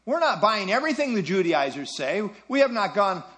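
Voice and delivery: lightly voiced objector playing it down; dismissive objector. Objector answering Paul's warning about legalism, mildly dismissive. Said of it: "someone may well respond".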